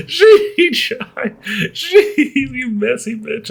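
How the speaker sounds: high laughing squeal; helpless laughter. Real, not acted. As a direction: gasp it out while cracking up. Still laughing hard at story.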